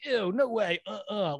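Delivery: a touch of mock disgust; mimicked disgusted refusal. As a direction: act out a squeamish no. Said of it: "he just turns into a really".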